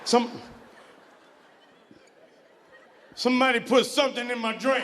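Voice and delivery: loud, high, slurred panic; drunken panic. Retold or imitated. Drunk man in the club panicking loudly, high yell. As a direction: yell like someone drugged your drink.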